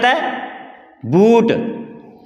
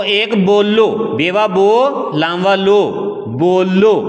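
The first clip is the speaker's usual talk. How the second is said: slow phonics sounding out. Shown as a demonstration. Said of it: "ये बेवा बो से शुरू हो रहा है".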